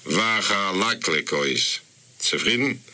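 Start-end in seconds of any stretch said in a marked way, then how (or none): 0.1-1.8 "Wachalaklekois" drawn out slowly, syllable by syllable; a careful, unhurried "Wachalaklekois"; slow, clear enunciation. Acted. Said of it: "sagen mit der Meul und mit der Tolk in Pavolinke".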